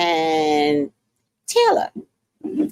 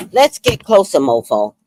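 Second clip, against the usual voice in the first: taunting push; 4 dB louder than usual. Real, not acted. Zooming in, taunting the screen.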